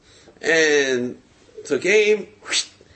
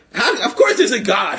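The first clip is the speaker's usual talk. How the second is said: laughing; 8 semitones higher, 4 dB louder than usual. Real, not acted. Laugh heard while ranting.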